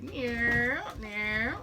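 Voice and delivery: imitated wobble sound, rising; two little rising mock noises; wobbly drunk noise. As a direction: softly mimic a drunk dad's wobbling. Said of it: "My dad's wobbly as fuck".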